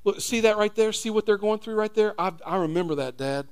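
Jesus speaking to the Father. Pretend. Jesus interceding with God for us, lightly voiced tender son. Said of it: "it might sound like this".

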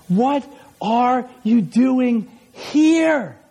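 word by word, spaced out; measured, wondering question, acted; slow deliberate question. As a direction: draw the question out slowly. Acting out God's wondering question, drawn out.

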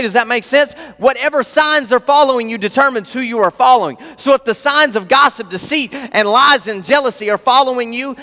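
high, insistent preaching; fired up. Real, not acted. Preacher challenging listeners on who they follow, fired up. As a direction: press the challenge home with fervor. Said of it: "I'm sorry, I'm fired up".

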